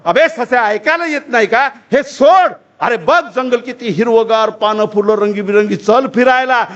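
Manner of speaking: mild shout turning into insistent coaxing; acted rabbit yell. Rabbit yelling at a mouse who ignores him, mild insistent yell. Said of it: "ससा जोरानं ओरडतो".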